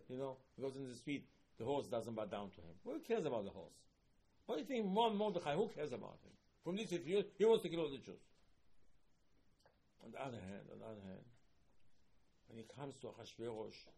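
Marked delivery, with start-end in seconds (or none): 2.8-8.2 outraged exclamation. Acted. Outrage at Haman's plan.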